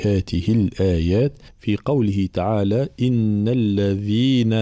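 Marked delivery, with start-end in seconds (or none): 3.0-4.5 slow recitation, الذين with a clear voiced dh; voiced dhal. Shown as a demonstration. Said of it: "الذال حرف مجهور".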